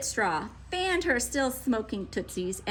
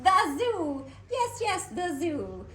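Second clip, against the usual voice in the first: jumpy, eager cry; excited; 6 semitones higher, slower than usual. A narrator's reading. Grinch jumps at the idea, excited. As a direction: jump at the idea. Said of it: "she said with a jump".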